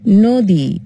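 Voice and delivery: নদী said as "nodi", অ closed to ও; নদী pronounced নোদী; closed o sound. Shown as a demonstration. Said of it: "উচ্চারণ কি করব?".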